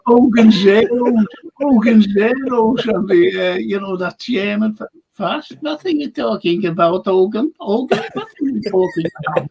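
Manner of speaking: a hint of German in the vowels; lightly put-on German; German accent. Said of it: "with German accents".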